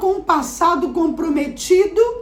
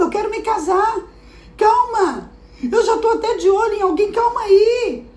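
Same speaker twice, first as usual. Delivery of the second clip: put-on higher girl's voice, protesting in disbelief; pleading daughter; 7 semitones higher than usual. Daughter begs her father to wait, high and disbelieving. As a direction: plead to stop it, half laughing.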